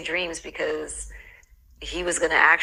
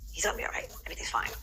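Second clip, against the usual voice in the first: reassuring herself; 5 dB quieter, faster than usual. Retold or imitated. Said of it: "Now I'm thinking".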